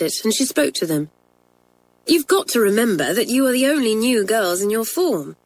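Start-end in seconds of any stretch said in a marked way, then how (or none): 2.1-5.4 lightly voiced schoolgirl reassuring new girls; a gentle older pupil explaining; Hilary, kindly. Hilary to the unhappy twins, lightly voiced and kind. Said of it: "she said".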